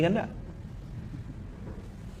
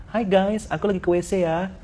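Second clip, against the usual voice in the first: mock influencer; 4 semitones higher, 5 dB quieter than usual. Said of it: "terang-terangan".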